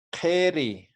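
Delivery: "Keri" with back k and i opened to e, falling; careful model pronunciation. Shown as a demonstration. Teacher showing the pronunciation, "Keri" said carefully. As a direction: say "Keri" as one clear model word. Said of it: "Entonces, la pronunciación".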